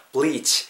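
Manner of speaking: "bleach" with a lengthened "ee"; "bleach" as "bleeech"; long vowel. Shown as a demonstration. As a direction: hold the vowel of "bleach" slightly. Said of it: "약간 좀 길게 발음한다".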